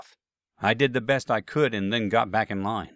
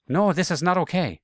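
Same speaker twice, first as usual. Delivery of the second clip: put-on Asian accent; 6 semitones higher than usual. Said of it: "I thought in an Asian accent".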